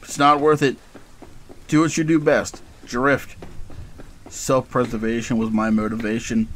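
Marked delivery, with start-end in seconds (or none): 0.0-3.4 urgent inner voice. Acted. Inner voice urges him to flee.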